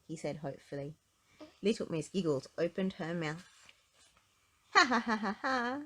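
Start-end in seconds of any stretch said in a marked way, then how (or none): 4.7-5.8 higher, louder joyless ha ha ha; doleful laugh. Acted. Miss Giggles trying to giggle for Mister Happy, doleful ha ha. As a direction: force out a mournful laugh. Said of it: "she said dolefully".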